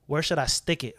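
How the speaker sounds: put-on hushed drunk whisper; sleazy unvoiced whisper to the stranger. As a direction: breathe it with no voice, leaning in. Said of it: "He goes".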